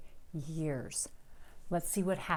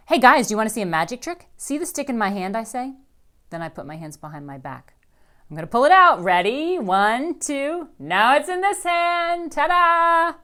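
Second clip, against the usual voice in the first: loud, high, eager performer; showman; 7 semitones higher, 11 dB louder than usual. A narrator's reading. Rascal shows siblings a magic trick, loud eager showman.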